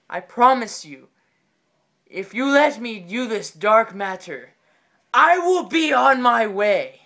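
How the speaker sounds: slow, grand, theatrical proclamation; solemn exorcist plea. Acted. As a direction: address a trapped spirit with mock gravity. Acts man bargaining with tormented soul.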